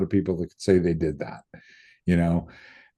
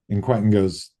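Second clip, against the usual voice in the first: ordinary talk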